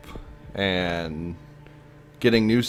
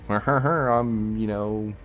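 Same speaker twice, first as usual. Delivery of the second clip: scary voice. Pretend. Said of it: "in their best scary voice".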